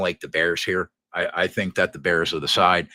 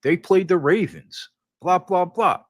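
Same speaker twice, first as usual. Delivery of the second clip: mocking doubter; 9 semitones higher, 3 dB louder than usual. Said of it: "everybody's gonna say".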